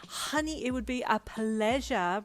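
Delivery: high and loud, a little slow; thrilled, flamboyant yes; excited. A narrator's reading. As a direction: Brian agreeing to make the wedding outfit, excited. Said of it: "Brian gasped excitedly".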